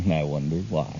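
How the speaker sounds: chuckling slowly through the words; laughing. Acted. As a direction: repeat it with a knowing laugh. Repeats quip with a laugh.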